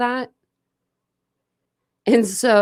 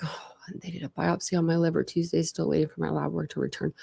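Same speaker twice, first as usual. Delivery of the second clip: whispering; 7 dB quieter than usual. Real, not acted. Sharing private medical news.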